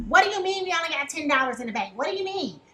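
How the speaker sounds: quick, exasperated partner voice; mock partner complaint. The reader voicing water sign nagging about money, quick and exasperated. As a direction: rattle it off like a fed-up partner.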